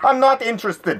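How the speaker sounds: put-on loud, high Italian accent. Speaker retelling what a neighbor said at the door, loud Italian accent. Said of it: "in a loud Italian accent".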